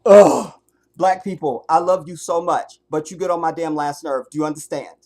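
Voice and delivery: loud, fed-up venting; exasperated rant. Real, not acted. Venting to the livestream after the visitors leave, loud and fed up. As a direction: blow off steam at full volume.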